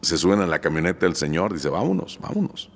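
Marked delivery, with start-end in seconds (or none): 1.7-2.7 much higher, urgent cry to leave; a frightened man hurrying everyone out; high, rushed alarm; panicked urging. Retold or imitated. Frightened man fleeing the ghost.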